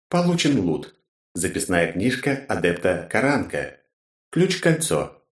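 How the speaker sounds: ровный голос игрового интерфейса; прочитай как сообщение системы; системный голос. Acted. (голос системы)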